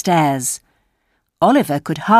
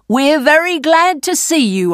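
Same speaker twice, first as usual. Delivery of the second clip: put-on oily old man; 8 semitones higher than usual. A narrator's reading. Fagin greets Oliver.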